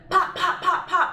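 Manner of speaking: quick separate spoken pops; staccato pops like gunfire; gunshot imitation. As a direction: imitate shots with popping words. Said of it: "somebody shooting at the van".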